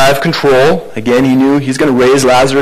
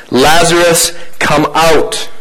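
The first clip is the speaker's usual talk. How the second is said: mild commanding call, raised pitch; loud voice; 4 semitones higher, slower than usual. Acted. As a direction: call it out firmly, without hesitation. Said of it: "He says in a loud voice".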